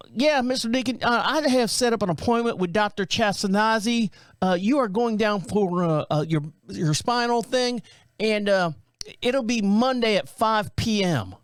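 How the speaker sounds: high, lightly voiced phone caller; country girl voice. Calling Deacon to book his appointment, lightly mimicked high voice. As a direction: mimic the scheduler's phone voice, a touch put on. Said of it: "sounds like a black country girl".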